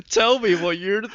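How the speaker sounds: loud, high mock demand; shouting. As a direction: shout it melodramatically through laughter. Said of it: "he's literally shouting in his speech bubbles".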